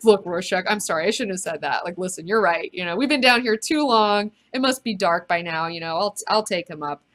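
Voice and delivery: apologetic, settling back down after an outburst; Night Owl. Acted. Night Owl apologizes to Rorschach after his blow up, backing down. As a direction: catch yourself and back down. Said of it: "catches himself".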